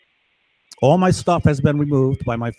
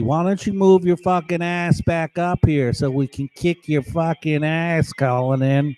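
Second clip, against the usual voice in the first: retold yelling; 3 semitones higher than usual. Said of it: "they're yelling at me".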